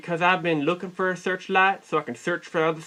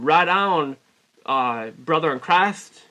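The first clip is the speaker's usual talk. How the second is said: corrected retake; slower than usual. Retold or imitated. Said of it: "that didn't come out right".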